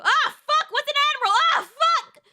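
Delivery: loud high exasperated curse; frustrated outburst. Real, not acted. Streamer cursing at a game mistake, loud outburst. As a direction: blurt it out in frustration.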